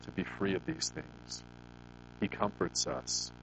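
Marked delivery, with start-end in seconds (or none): 0.0-1.4 sorry prayer. Retold or imitated. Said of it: "we're like".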